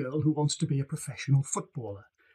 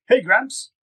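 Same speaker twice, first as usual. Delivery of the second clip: calling out; 8 semitones higher, 5 dB louder than usual. Acted. Bee calls out arriving.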